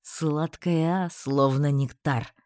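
low, slow, savouring voice; smug flirt. Acted. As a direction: savour each word like a seducer. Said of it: "заявил он".

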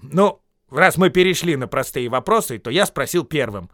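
firm answer. Acted. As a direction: stand your ground. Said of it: "ответил Бильбо".

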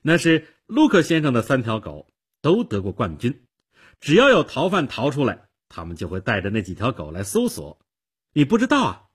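put-on loud, high, amazed girl; eager, astonished little-girl voice; very surprised. A narrator's reading. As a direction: explain in astonishment, ending on an incredulous question. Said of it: "小姑娘非常惊讶地说".

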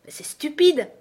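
high-pitched, indignant objection; loud protest. A narrator's reading. Alice objects to the queen's ruling, loudly protesting. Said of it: "protesta Alice d'une voix forte".

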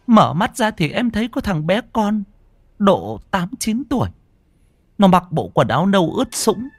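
high, trembling wife retelling; terrified. A narrator's reading. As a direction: tell it pitched high, still shaking with fear. Terrified wife recounts to husband. (vợ run sợ kể lại cho chồng, giọng cao)

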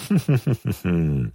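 short scornful chuckle; a queen amused by his outrage; wry half laugh. A narrator's reading. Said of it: "ضحكت بنصف ابتسامة ساخرة".

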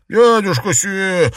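loud calling exclamation; exclaimed. Acted. Jiarong calls out to uncle Xue in the mud. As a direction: call out to the uncle. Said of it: "воскликнул он".

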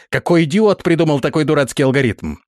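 high-pitched exasperated question; angry outburst. Acted. Prince rants at his guard about the procedure, exasperated. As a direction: demand who is to blame, incensed.

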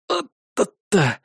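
slow drawn-out cry of pain; pained wince. Acted. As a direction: wince as the back pulls. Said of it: "спину как будто стянуло". (протяжное «ай» от боли)

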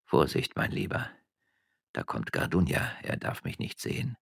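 furtive whisper to himself. A narrator's reading. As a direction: hiss a hushed warning into your cloak. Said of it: "in seinen scharlachroten Mantel hineinflüsterte".

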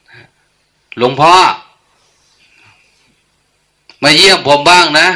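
high, loud call, first word drawn out very slowly; imitating someone yelling at an elder who can't hear; ตะโกนเสียงดังให้คนหูตึงได้ยิน; shouting to a deaf monk. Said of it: "มันได้พูดดังไปอะ".

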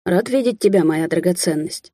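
plain reading voice

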